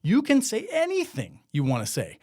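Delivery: imitated protesting lawmakers. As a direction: protest like a lawmaker reassuring a critic. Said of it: "lawmakers who voted for this would say".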